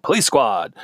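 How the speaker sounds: mock-dramatic title shout, lightly done; punchy, exclaimed show title; exclamation-point delivery. Shown as a demonstration. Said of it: "supposed to say it like that".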